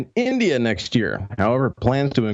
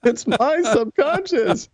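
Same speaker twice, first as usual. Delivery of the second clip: spooky inner voice; 12 semitones higher, much slower than usual. Pretend. Spooky reply to the joke.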